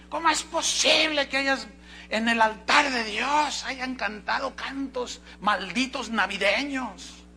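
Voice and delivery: high, slow, scandalized reading of "¿Cómo es posible que"; mock outrage. Preacher reads the accuser's email with mock outrage. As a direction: sound shocked and indignant. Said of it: "seguí leyendo el correo".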